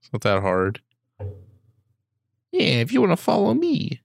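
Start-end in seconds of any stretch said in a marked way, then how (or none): 2.5-4.0 much higher, hammed-up announcer; a loose hint of Madden's voice; John Madden impression. Joke John Madden reading out a handle. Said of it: "It's John Madden".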